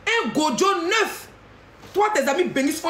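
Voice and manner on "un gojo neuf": "Un gojo neuf" stretched out slow, rising at the end; slow mocking drawl. To the rival, mocking her newborn with a slow, drawn-out "Un gojo neuf".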